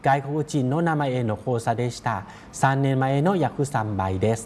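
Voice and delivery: reading the Japanese sentence out very slowly; each syllable spaced out for learners. Shown as a demonstration. Teacher reads a Japanese example sentence to students, very slow and deliberate. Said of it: "อย่างเช่นประโยคนี้เนาะ".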